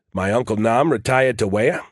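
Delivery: "Nam" and "Wea" without their R's; New England vowels on "Nam" and "Wea"; dropped R's. Shown as a demonstration. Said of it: "which I pronounce Nam and Wea".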